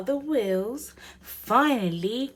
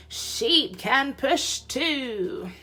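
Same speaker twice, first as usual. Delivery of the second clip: eager idea; 6 semitones higher, 4 dB louder, slower than usual. Acted. Frog's helpful idea.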